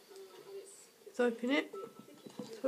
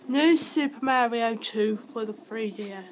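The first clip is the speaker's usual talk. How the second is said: wearing a retainer; 4 dB louder than usual. Real, not acted. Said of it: "I might sound weird 'cause I've got a new retainer in".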